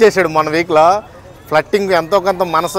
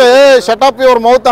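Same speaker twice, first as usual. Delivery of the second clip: louder and higher, every word drawn out slowly; angry retort; 4 semitones higher, 5 dB louder, much slower than usual. Retold or imitated. Nabil telling Yashmi off in the nominations, slow loud retort. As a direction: snap it slowly to shut her up.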